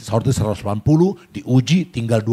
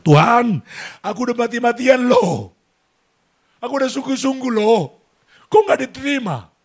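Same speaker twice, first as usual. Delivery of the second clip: shouting at God after being rejected by NTU; crying out to God; 12 semitones higher than usual. Retold or imitated. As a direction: cry out to God as if he can't take it anymore. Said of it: "Dia berteriak kepada Tuhan".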